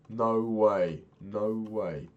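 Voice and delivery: can't believe your luck; excited disbelief. Real, not acted. Spots familiar Minecraft terrain.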